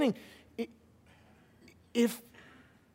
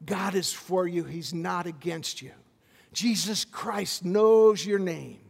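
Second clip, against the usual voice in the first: gentle blessing; 5 semitones lower, slower than usual. Shown as a demonstration. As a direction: speak it like a hand on a shoulder. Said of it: "put a hand on someone and say".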